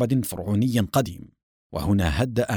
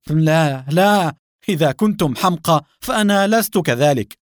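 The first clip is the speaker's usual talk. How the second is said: loud, high-pitched alarmed protest; panicked shout; 6 semitones higher, 6 dB louder than usual. A narrator's reading. Agent throwing down his weapon, panicked shout. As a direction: cry out in alarm as you give up. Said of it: "وصاح بفزع".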